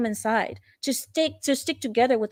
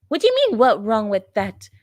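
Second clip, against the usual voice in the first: incredulous; 3 dB louder than usual. Real, not acted. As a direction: throw the question back in disbelief. Incredulous retort to the quoted remark.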